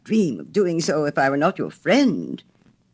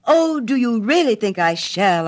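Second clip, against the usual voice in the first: eager question; 8 semitones higher, 6 dB louder than usual. A narrator's reading.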